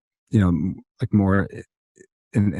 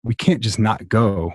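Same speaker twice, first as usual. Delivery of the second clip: slow, deliberate, each word weighed; slow determined quote; slower than usual. Retold or imitated. Sisters deciding they must go, slow and firm. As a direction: lay it down slowly, no room for argument. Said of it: "and we were like".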